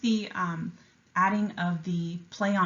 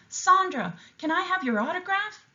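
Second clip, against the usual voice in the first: much higher, excited calling out; eager fan call; 12 semitones higher than usual. A narrator's reading. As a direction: beg a star for an autograph. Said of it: "Missus Martinez called out".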